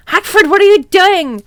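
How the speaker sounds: high, loud call; shout. Acted. Draco catching Hagrid in the cupboard, loud yell. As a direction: yell it across the room. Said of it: "he shouted".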